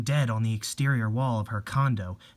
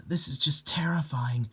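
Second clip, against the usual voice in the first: frightened whisper; 3 dB quieter than usual. Acted. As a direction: whisper it, scared stiff. Frightened alone, voice outside.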